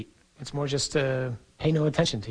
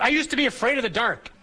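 put-on a touch of a small boy's higher voice; boy blurting out; 8 semitones higher than usual. Priest quoting a young boy at dinner, lightly higher voice. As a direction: blurt it out like a little kid.

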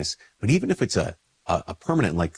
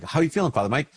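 caring question; 6 semitones higher, faster than usual. Retold or imitated. Someone asking after sick priest.

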